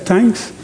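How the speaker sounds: "Thanks" said as tanks, hard T with no th sound; "Thanks" spoken with a plain T, no H; Thanks without the H. Shown as a demonstration. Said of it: "without the H".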